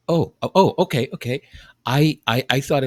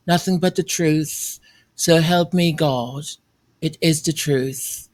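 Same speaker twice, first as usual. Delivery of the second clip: mock calm voice. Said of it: "I'll say it in a very calm voice".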